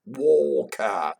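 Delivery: drawn-out, falling "Walk her"; surprised exclamation. Shown as a demonstration. Showing an old English saying, mildly surprised. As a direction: stretch it in mild disbelief. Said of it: "when they were surprised".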